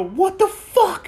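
high, slow drawn-out what the fuck; stretched mock cry. Victim replaying his own dazed cry, high and drawn out. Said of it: "I just go".

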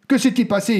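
high, loud furious demand; furious shout. A narrator's reading. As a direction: shout it at them in rage. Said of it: "hurla-t-il". (hurlement furieux, voix haute et forte)

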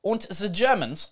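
slow, bad German accent; mock-German delivery, drawn out; horrific German accent. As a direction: put on a clumsy German accent. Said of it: "my German accent is horrific".

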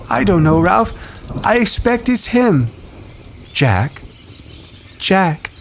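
nervous schoolboy; Piggy voice. A narrator's reading.

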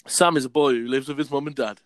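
deliberate schoolboy-story reading; story read aloud. Acted. Reading his old school story to friends, read-aloud voice.

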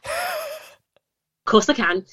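very high, slow sing-song princess voice; sweet Disney princess, drawn out and high; theme park princess. Pretend. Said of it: "Can you do a Disney princess voice?".

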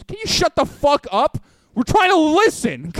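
high-pitched mock furious telling-off; exasperated outburst. Fed-up student scolding talkers during lecture, exasperated outburst. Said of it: "in the middle of the teacher talk. He goes".

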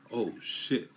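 impressed oh shit. Retold or imitated. Someone hearing the word Brooklyn, impressed "Oh, shit.". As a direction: react like the name scares you. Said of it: "That's what they say".

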